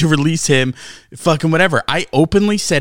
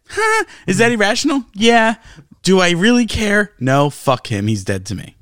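high-pitched mock team owner; acting out a team owner; 7 semitones higher than usual. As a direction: play the owner firing a pitcher. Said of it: "Here's what I would have said".

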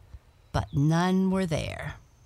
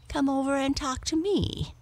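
friendly invitation; 10 semitones higher than usual. A narrator's reading. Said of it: "invited Topaz".

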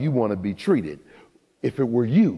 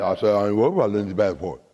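low, fast, mumbled imitation of Mister Williams; imitating her father; 3 semitones lower, much faster than usual. Preacher mimics Mister Williams to the crowd, fast and low. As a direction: rattle it off low like the coach dad. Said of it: "That's how he talks".

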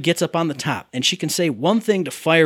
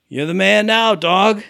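higher-pitched imitation without the Scottish accent; Fiona; 4 semitones higher, 4 dB louder, slower than usual. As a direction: mimic her saying the quote, higher and drawn evenly. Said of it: "She says it like".

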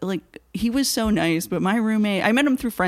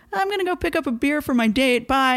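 higher-pitched re-enacted goodbye; acted breezy exit; 6 semitones higher than usual. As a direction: toss it off high, as if leaving. Re-enacts hurried exit from laundromat.

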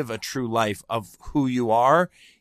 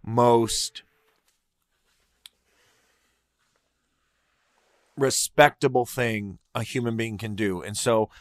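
getting emotional. Real, not acted. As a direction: voice catching with real emotion, long pauses. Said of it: "oh my God, I'm getting emotional".

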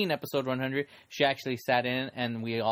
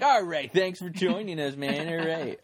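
mock radio host; 2 semitones higher than usual. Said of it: "all radio fake".

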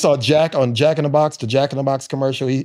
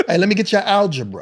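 sleazy pickup line, laughing; creepy; 5 semitones higher than usual. Pretend. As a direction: creep it out playfully. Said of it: "make it sound creepy".

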